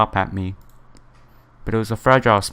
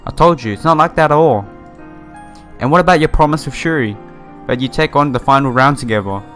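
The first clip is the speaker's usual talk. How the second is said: acted protest; 3 semitones higher, 3 dB louder than usual. Reads hero protesting against her quitting.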